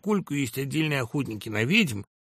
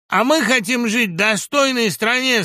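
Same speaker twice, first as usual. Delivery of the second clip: loud, strained protest; high-pitched yell; 10 semitones higher, 8 dB louder than usual. A narrator's reading. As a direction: yell it until the voice nearly cracks. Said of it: "заорал Панкратов и дал петуха". (истошный крик, срывающийся на петуха)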